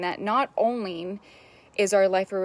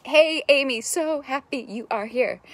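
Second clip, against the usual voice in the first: higher and louder hello, then slow; cheerful self-greeting; 6 semitones higher, 3 dB louder than usual. Pretend. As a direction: beam at yourself and welcome yourself. Greeting herself in the mirror.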